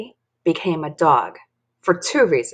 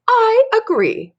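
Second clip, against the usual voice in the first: high, loud, slow villain voice; put-on scornful old woman; Missus Gobblecracker grumbling; 6 dB louder than usual. Villain agrees with mom over popcorn, grumbling. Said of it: "grumbled Missus Go".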